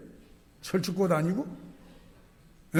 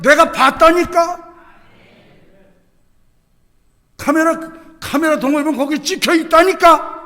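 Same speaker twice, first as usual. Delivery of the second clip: higher, louder eyewitness insistence; insistent shout; 8 semitones higher, 9 dB louder than usual. Acted. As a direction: insist loudly like someone who saw it.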